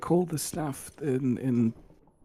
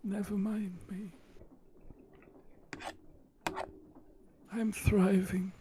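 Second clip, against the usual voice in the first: sarcastic; 4 semitones higher, 7 dB quieter than usual. Real, not acted. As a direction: say it with quiet sarcasm. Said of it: "Your sarcasm is much appreciated".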